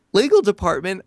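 can't believe what he heard; incredulous echo. Real, not acted. Scoffing at the lawyers' demand, incredulous.

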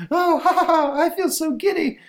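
very high, loud hysterical laughter; flipping out with giddy glee; giddy Elsa. Acted. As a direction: laugh wildly through the words in a shrieky falsetto. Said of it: "we suddenly see Elsa begin flipping out".

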